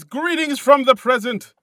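a booming herald's hello; grand greeting. Retold or imitated. Reading out a listener's note, slow and grandly. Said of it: "He says".

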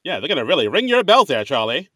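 fast, lightly voiced 1940s patter; old time 1940s voice. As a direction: rattle it off like an old film. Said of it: "He's doing that old time nineteen forties voice".

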